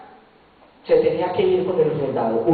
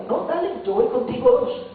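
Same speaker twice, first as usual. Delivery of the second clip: much higher, eager and bright offer; 13 semitones higher than usual. Pretend. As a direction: jump up in pitch, keen to go along. Creyente ofrece la segunda milla. (oferta entusiasta, mucho más aguda)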